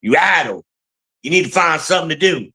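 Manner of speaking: addle for idle, quick scolding; lightly voiced stern grandfather; grandfather's Southern pronunciation. Imitating grandpa's Southern scolding to find something to do. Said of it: "Shout out to my grandfather".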